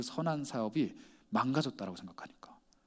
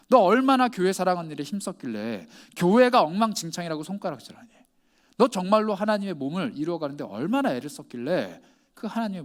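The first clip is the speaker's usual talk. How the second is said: forceful opening on each accusing question, falling away at the end; preacher's rebuke; 3 semitones higher, 5 dB louder than usual. Acted. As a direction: press each reproachful question home. 하나님의 책망을 설교자가 재연. (책망하듯 힘주어 몰아붙이는 설교조)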